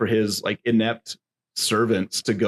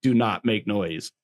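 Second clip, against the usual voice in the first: emphatic ringside declaration; hammed-up announcer indignation; wrestling announcer; 3 semitones higher than usual. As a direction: lay down the law to the arena. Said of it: "my best wrestling announcer voice".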